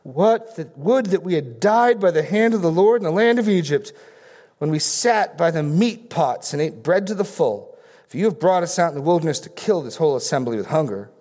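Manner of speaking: a touch of grumbling Israelites. Retold or imitated. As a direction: whine like a grumbling crowd. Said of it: "the people of Israel said to them".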